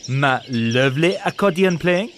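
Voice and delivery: slow, incredulous sneer; snorting scorn. Acted. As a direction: repeat it with disdain. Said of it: "snorted Pierre".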